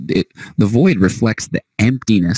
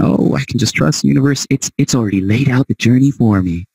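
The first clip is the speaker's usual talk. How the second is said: higher, mock carefree believer; naive believer; 5 semitones higher than usual. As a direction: mockingly play someone blissfully trusting. Mocks a naive truster's thinking.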